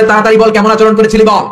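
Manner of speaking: high, insistent demand; imitating an alarmed husband's cry; retold urgent yell. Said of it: "চিৎকার দিয়ে বলে".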